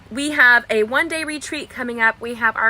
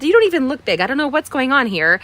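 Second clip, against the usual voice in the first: friend reassuring; 4 semitones higher, 5 dB louder than usual. Retold or imitated. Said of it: "She said".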